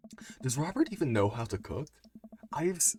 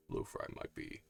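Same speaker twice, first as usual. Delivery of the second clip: vocal fry; 13 semitones lower, 9 dB quieter than usual. Shown as a demonstration. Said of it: "it's vocal fry".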